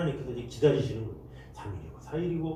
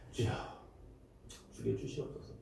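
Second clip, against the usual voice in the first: much softer, lower surrender; right prayer; 5 semitones lower, 13 dB quieter than usual. Shown as a demonstration. Preacher showing the right prayer of surrender, very soft. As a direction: breathe 죽여주시옵소서 low and soft. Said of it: "이게 아니라".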